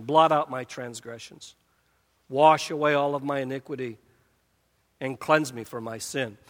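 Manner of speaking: ask, don't demand; humble pleading. Acted. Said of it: "pick up a tone of humility".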